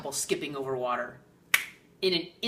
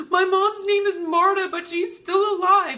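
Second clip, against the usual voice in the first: much higher, louder put-on voice of the confused guy; squeaky hammed-up young man, puzzled; imitating the guy; 11 dB louder than usual. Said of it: "And he's like".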